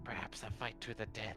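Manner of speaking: half-whispered, hushed stage whisper. Voicing a character answering quietly in a game scene: half-whispering in character. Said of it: "Argos kinda whisper back".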